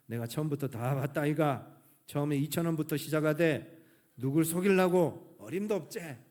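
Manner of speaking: Gyeongsang grandma. Retold or imitated. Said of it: "할머니가 하시는 얘기가".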